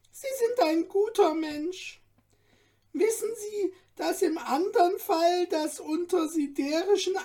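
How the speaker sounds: lively little dwarf. A narrator's reading. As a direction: chatter on like an excitable dwarf. Dwarf praises Stefan.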